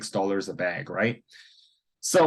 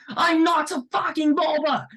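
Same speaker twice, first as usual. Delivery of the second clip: high-pitched angry outburst imitating an Italian man; mock fury in an Italian accent, pitched way up; 3 dB louder than usual. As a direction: act out a furious Italian-accented denial. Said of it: "very angry".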